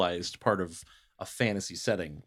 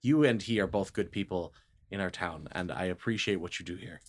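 very nice. Acted. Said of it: "I'm being very nice".

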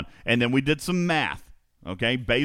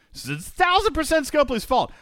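mock squeaky voice; 12 semitones higher than usual. Host mockingly repeats that the developer is at fault, high and silly. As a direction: repeat it much higher in a silly put-on voice.

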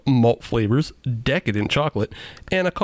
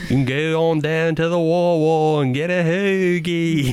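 put-on Philly accent; 4 semitones higher than usual. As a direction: play a Philly local, Philly accent. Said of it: "No, this is the Philly accent".

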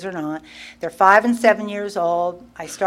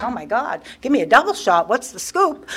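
eager gossip; 4 semitones higher than usual. Retold or imitated. Replays her eager bar reply.

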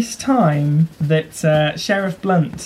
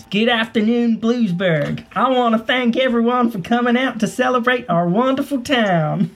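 public speech voice; 4 semitones higher than usual. Acted. GM voices mayor giving speech.

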